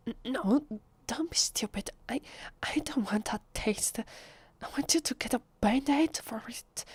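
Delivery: halting, agitated protest; flustered refusal. Acted. Vampire refusing a taste of the visitor's blood, agitated. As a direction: stammer a refusal while fighting temptation.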